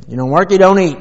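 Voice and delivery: lightly voiced mom laying down the law; a hint of a commanding captain; imitating stern mom. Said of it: "like the captain of a ship".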